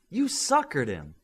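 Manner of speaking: slow, teasing grin; drawn out, amused and knowing; smiling tease at a friend; with a smile. A narrator's reading. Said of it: "she said with a smile".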